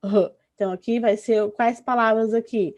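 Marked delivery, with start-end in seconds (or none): 0.0-0.3 R as a short aspirated "huh"; breathy throat sound for R; strong R sound. Shown as a demonstration. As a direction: say R as its H-like sound, not its name. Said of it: "que se inicia com ele será".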